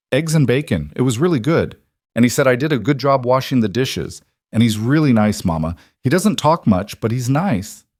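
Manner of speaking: lightly voiced young girl; a touch of a happy child; little girl voice. Child character voice.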